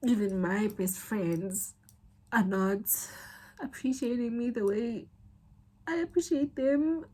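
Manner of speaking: halting, pitch climbing with real upset; emotional, near tears. Real, not acted. Hurt that best friends don't appreciate them, tearful. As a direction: push the hurt out in broken phrases. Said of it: "the fourth time I'm crying today".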